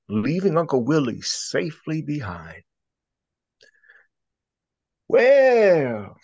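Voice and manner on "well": chuckling relief. Acted. Rabbit relieved after escape.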